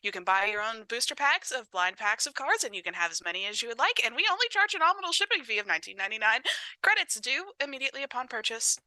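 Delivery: bright salesman pitch, rattling off fine print; customer service voice. Pretend. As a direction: sell it like a cheerful shop clerk. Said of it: "customer service voice".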